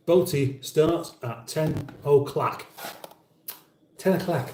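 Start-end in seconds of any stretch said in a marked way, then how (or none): 1.5-2.7 "o'clock" said as "o'clack"; mimicked o'clock. Host copying how he says ten o'clock, mimicked. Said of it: "very difficult for me not to mimic". 4.0-4.5 higher "o'clock", said as "o'clack"; mimicked o'clock. Host repeating ten o'clock to mimic him, mock pronunciation. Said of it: "very difficult for me not to mimic".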